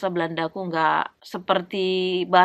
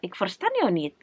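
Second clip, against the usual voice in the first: brusque "Ik verstaan jou niet" with a falling end; a touch of an impatient Dutchman brushing her off; curt dismissive; 3 dB quieter than usual. Retold or imitated. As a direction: clip "Ik verstaan jou niet" off like a cold, uninterested local. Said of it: "orang yang cuek ... langsung kayak".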